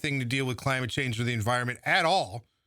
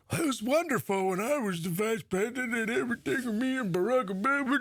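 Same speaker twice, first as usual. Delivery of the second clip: higher, put-on voice of smug nostalgia; mocking Biden; 8 semitones higher than usual. Mocking Biden's nostalgia for his vice presidency, in a high put-on voice. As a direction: sneer at him as a self-satisfied politician. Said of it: "he's, of course, under the impression".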